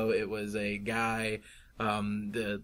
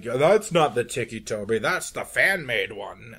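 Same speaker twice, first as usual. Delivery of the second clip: mock complaint in an unsure Scottish accent; muddled Scottish accent; 4 dB louder, slower than usual. Purist yelling about the fan-made version, in a wobbly Scottish accent. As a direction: attempt a Scottish accent and half miss it. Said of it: "was that Scottish? I don't know what accent that was".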